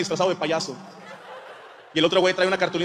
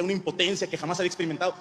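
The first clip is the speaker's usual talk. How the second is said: ordinary talk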